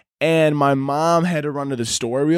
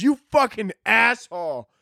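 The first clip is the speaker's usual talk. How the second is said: high-pitched mock outrage; imitated indignant insult, pitched up; mad uncle; 8 semitones higher than usual. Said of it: "he got so mad".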